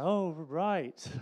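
awkward, drawn-out polite reply; weird-smile politeness. Retold or imitated. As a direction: play along through an uneasy smile. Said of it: "the weird smile".

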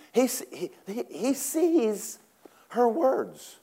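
high, halting and hushed; lightly voiced scared prophet; hint of fear. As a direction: stammer in rising panic. Preacher voices terrified Elijah.

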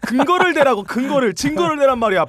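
mock demanding. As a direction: press insistently for proof, playing it up. 장난스럽게 근거를 따져 물음. (과장되게 따지는 말투)

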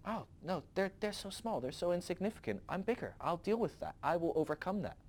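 lightly voiced God, unbothered and gentle; God shrugging it off. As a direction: brush it aside like a footnote. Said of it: "He's like".

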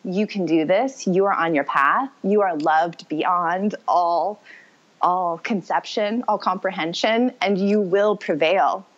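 slow, soothing spirit voice; lightly voiced calm spirit guide, slowed down; gentle guide voice. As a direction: speak it like a loving spirit guide, unhurried. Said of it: "she was like".

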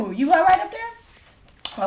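slow, high, drawn-out call upward; calling up to someone. Acted. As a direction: ask slowly like calling up a ladder. Calling up to fallen friend.

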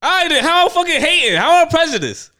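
high, loud defensive whine; hammed-up indignation; mock protest. Real, not acted. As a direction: play the wronged party. Defending himself in banter.

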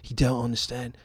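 lightly faked English accent; a half-hearted English bloke voice; mild mock English accent; bad English accent. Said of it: "this is gonna be a bad English accent".

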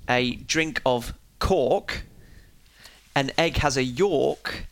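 Lancashire accent with an R after every vowel. Shown as a demonstration. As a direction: say it slowly in a Lancashire accent, R added. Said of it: "add an R after every vowel".

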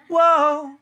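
high whoa, laughing; mock whoa with a laugh. Shown as a demonstration. Singer correcting the audience, laughing high whoa. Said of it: "And it's not".

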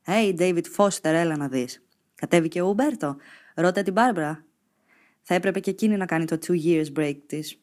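κοροϊδευτική καναδέζικη προφορά, πιο ψηλά και δυνατά; μιμηθείτε κοροϊδευτικά Καναδούς νοσηλευτές; mocking Canadian accent. A narrator's reading. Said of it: "με καναδέζικη προφορά". (νοσηλευτές κοροϊδεύουν τη Σελήν με καναδέζικη προφορά)

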